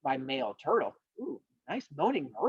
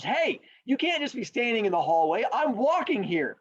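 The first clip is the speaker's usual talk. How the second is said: indignant turtle; 5 semitones higher than usual. Acted. Acted hallway quarrel.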